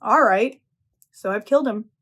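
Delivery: matter-of-fact, lightly voiced calm; understated calm after the blow; calmly. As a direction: say it as if stating the obvious. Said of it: "she very calmly says".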